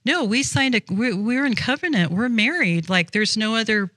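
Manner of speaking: lightly acted husband laying it out; indignant husband. Husband telling wife there's no room for others, indignant. Husband objects to wife's boyfriends.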